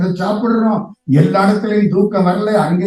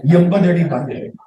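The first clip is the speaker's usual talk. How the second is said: laughing correction; slower than usual. Shown as a demonstration. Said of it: "பதினாறா?".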